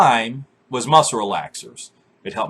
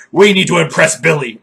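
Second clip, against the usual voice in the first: mock girls' voice; 4 semitones higher, 8 dB louder than usual. Girls conspiring, mock quote.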